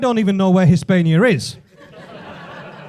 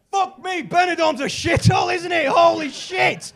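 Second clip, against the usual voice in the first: high-pitched incredulous exclamation, slowing at the end; appalled amazement; 7 semitones higher than usual. Acted. Comedian to audience about Benidorm, appalled amazement. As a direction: marvel in a high voice at how awful it is.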